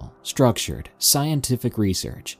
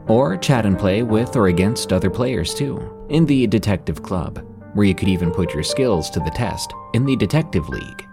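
ad read. Acted. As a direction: sell it like a podcast ad. Narrator reads sponsor ad.

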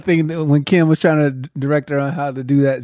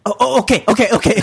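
higher, flustered okays; mock frantic; 4 semitones higher, faster than usual. Frantic crew guy with earpiece, higher and flustered. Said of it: "he was like".

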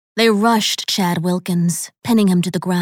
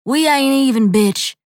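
angry; 6 semitones higher, 4 dB louder than usual. A narrator's reading. Chad spits out his threat.

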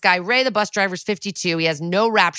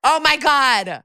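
high, loud burst of amazement; astonished; 8 semitones higher, 4 dB louder, slower than usual. Real, not acted. Listener reacting to co-host's clown-mask story, astonished. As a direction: gasp it out in real amazement.

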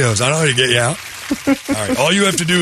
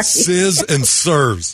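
slow hissing snake voice; drawn-out s like a snake; much slower than usual. Shown as a demonstration. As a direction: stretch every s into a long hiss. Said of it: "give an answer that dumb".

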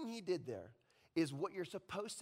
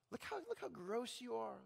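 quiet sneering Satan; 6 dB quieter than usual. Acted. Satan's lies.

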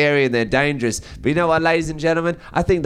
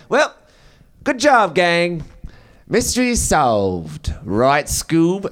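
cheery gang leader wrapping up; hearty Fred; 2 semitones higher, much slower than usual. Retold or imitated. Fred congratulating the gang, hammed-up cartoon cheer. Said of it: "And then Fred goes".

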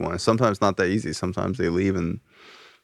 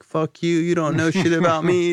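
mock teen outburst; 8 semitones higher than usual. Angry teen girl cursing at him.

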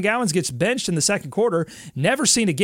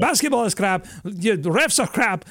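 higher-pitched mock Russian-accented rant; 4 semitones higher than usual. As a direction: imitate a ranting coach with a Russian accent. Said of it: "broken English, Russian accent".

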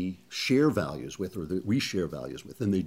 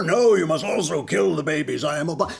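louder, higher, pompous mock Obama; 6 semitones higher, 4 dB louder than usual. Obama orders the nuns, booming villain voice. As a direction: boom it like a cartoon villain.

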